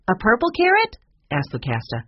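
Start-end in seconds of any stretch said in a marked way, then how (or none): 0.1-1.0 high, louder rising question; astonished squeak of a question; incredulous. A narrator's reading. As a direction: ask in shocked disbelief. Disbelieving question about the rabbit.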